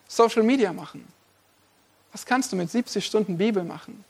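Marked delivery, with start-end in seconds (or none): 2.1-4.0 a softer, weighty second question; preacher lowering his voice to let the contrast land; quiet. Acted. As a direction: drop the voice right down for the Bible question. Rhetorical contrast, answer question.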